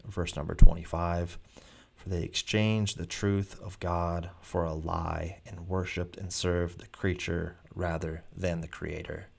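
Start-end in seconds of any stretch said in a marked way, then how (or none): 1.9-9.3 slow, measured reading of scripture. Shown as a demonstration. Preacher quoting Romans to his listeners, slow solemn reading. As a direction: read the verse slowly and solemnly. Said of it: "The Bible says this in Romans".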